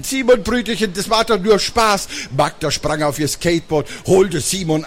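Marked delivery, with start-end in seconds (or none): 0.0-2.1 higher, coaxing sister's voice; smooth it over after the prank; placating big sister. Acted. Sister tells scared brother it was fun, placating.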